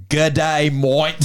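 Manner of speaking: put-on slow, overdone "good day, mate" Aussie accent from a learner; beginner's Aussie English accent. Japanese learner greeting an Australian, overdone Aussie accent. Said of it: "they've just started learning English".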